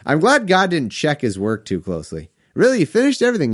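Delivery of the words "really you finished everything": higher, incredulous God; a hint of disbelief; mock surprise. God questioning Jesus's work, mock incredulous.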